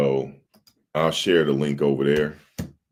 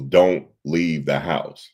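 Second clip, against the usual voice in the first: slow retold command; 4 dB louder, much slower than usual. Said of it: "Like, yelling at me".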